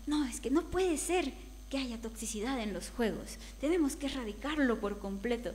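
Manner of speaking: lightly mimicked outrage, emphatic; imitating indignant speaker. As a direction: act out someone taking it too personally. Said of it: "tan enojado, se lo tomaba tan personal".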